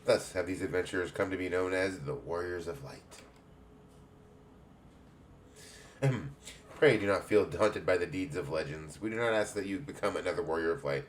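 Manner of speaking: put-on lightly English-accented guildmistress greeting; a hint of a welcoming English matron. Guild head welcomes a young adventurer, light English accent. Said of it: "I'm making everybody have an English accent".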